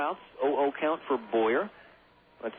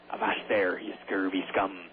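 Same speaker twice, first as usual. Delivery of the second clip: lightly voiced pirate; 6 semitones lower than usual. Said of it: "I sound like a pirate".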